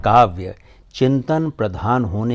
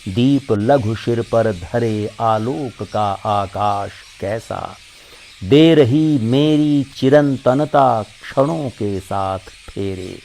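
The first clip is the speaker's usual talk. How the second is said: measured Hindi verse recital, lines set apart by pauses; poem recitation. Acted. Recites Mahadevi Verma's poem.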